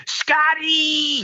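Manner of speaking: put-on grieving old man screams for his grandson; anguished scream. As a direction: cry the name out in agony, drawn out. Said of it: "And he's screaming".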